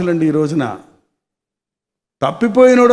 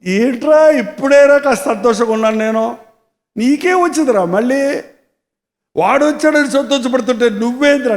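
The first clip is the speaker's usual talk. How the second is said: pleading father. Acted. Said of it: "బతిమలాడుకున్నాడంట".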